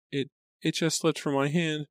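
high, stammering maid; small, high servant's voice; quiet apology. A narrator's reading. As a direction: stumble into a meek, high-voiced excuse. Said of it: "said quietly".

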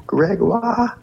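high, drawn-out French pronunciation; French name. Retold or imitated. Saying the boy's name to his parents, mock French. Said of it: "And then I said".

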